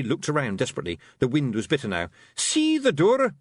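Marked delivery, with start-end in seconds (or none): 2.4-3.4 slow, higher commanding Scots. A narrator's reading. Rob ordering Tiffany, commanding Scots voice. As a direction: order her sharply. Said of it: "Rob Anybody commanded".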